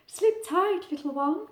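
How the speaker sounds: lightly voiced mother owl; Mummy Owl. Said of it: "said Mummy Owl".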